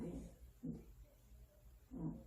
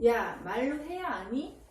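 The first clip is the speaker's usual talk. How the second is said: imitating dismissive child. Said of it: "이래, 우리한테".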